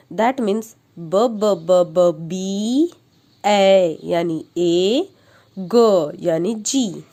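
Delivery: slow, repeated ब ब ब ब then letter names; teacher drilling letter sounds; phonics sounding out. Shown as a demonstration. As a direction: stretch each sound for a child. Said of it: "अब हम इसे बोलेंगे".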